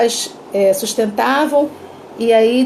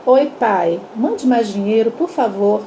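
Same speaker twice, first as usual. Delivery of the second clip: gentle reading; 2 semitones lower, slower than usual. Retold or imitated. Mother rereading daughter's telegram to father, gently. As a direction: imitate a mother reading it sweetly. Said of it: "ela lê pra ele assim".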